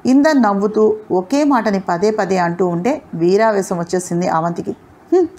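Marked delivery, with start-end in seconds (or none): 4.7-5.3 short high fighting yell; battle cry. Acted. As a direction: shout as she leaps to strike. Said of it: "పెద్ద అరుపుతోటి". (గాలిలోకి ఎగురుతూ పెద్ద అరుపు)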